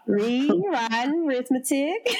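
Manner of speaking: "Rewriting arithmetic" with the Rs barely said; dropped Rs. Shown as a demonstration. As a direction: let the Rs slide away, Southern style. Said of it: "I couldn't use my R's".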